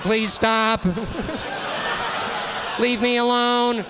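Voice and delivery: high, slow, laughing plea; pleading nerd voice. Retold or imitated. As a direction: beg them to stop through laughter. Hawking begging the bullies.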